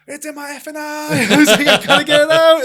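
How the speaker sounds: high, loud mock panic with a laugh between; retold panicked yell. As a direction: replay the panic, laughing at yourself. Retold panic, plastic in eye.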